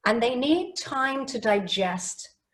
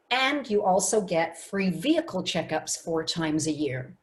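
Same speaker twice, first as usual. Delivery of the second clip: broken into short sentences, emphasis on key words; short sentences with pauses; 3 semitones lower than usual. Shown as a demonstration. Coach pitches insurance to car buyer, short sentences with pauses. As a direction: give the listener time to digest between sentences. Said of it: "It was broken down into short sentences".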